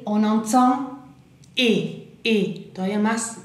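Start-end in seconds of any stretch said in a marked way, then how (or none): 1.6-2.7 E with the mouth opened wide. Shown as a demonstration. Teacher showing French learners a sound, wide-open E. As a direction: say E as an open vowel. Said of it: "más abierta la boca".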